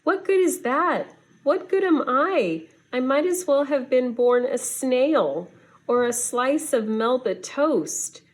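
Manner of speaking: high, pained cry of self-pity; despairing outburst. Acted. Penguin lamenting his useless wings, high and despairing. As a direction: wail it like a bird who has given up on himself.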